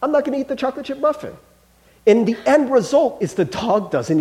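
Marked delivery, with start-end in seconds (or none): 0.0-1.3 dog's voice. Retold or imitated. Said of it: "The dog's like".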